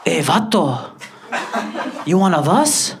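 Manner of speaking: imitated Latino schoolboy accent. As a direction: put on a Latino homeboy accent, lifting the question. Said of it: "Jose, came up to me walking like this".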